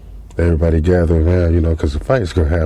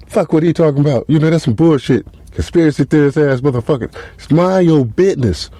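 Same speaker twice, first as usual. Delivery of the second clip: dismissive nato; 8 semitones higher than usual. Retold or imitated. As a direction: wave off the conspiracy nut, higher voice.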